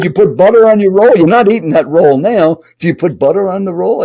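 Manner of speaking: mock yell, pitched high; imitated yelling. Stranger scolds seatmate about butter on a roll, half-yelling. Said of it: "He's kinda yelling at you".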